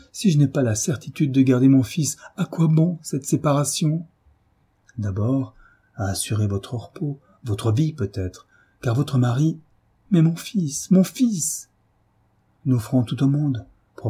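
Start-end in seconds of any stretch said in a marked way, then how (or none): 0.1-4.1 higher, pleading in dread; trembling with fear. Acted. Mother to the doctor, afraid for her son. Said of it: "toute palpitante de crainte". 10.1-11.7 much higher, rising anguish; anguished cry. Acted. Mother to the doctor, anguished cry. Mother fearing to lose son.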